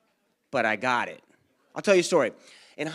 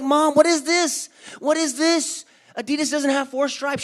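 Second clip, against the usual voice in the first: high, loud outrage; high, louder upset kid yelling at mom; outraged kid; 10 semitones higher, 6 dB louder than usual. Retold or imitated. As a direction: confront mom in disbelief. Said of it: "I'm like".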